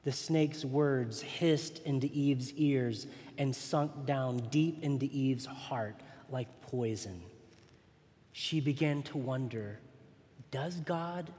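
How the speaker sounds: put-on reading a bedtime Bible story to a child; gentle children's story reading; storybook reading. Reads children's Bible story aloud.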